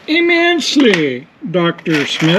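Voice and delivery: lightly mock the word like a stuffy professor; mock posh doctor. Mocking his partner's word choice.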